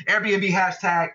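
slow, pedantic nerd voice. Retold or imitated. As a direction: do a dorky nerd. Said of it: "That was my nerd voice".

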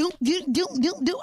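mocking house beat. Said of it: "You be like".

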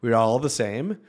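put-on light Swedish accent; a hint of a Swedish accent. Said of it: "That's my Swedish accent".

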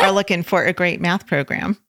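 lightly put-on Oklahoma twang; Oklahoma accent. Shown as a demonstration. Host trying her best Oklahoma accent for a sponsor read, Oklahoma accent. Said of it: "Oklahoma accent".

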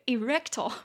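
"erectile" with REC stressed; teacher's demo of "erectile", accent on REC; stress on second syllable. Shown as a demonstration. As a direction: say e-REC-tile for "erectile", middle syllable strongest. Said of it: "终于解在第二音节".

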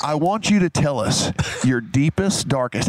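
whispered leading question, unvoiced; breathy MC whisper. MC whispering the question to Kelly. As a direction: whisper it like a showman teasing the crowd. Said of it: "He's like".

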